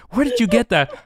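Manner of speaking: high, strained mock father; a hint of a throaty Alan Rickman; father's voice. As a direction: squeeze it out as the choked father. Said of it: "do the father's voice".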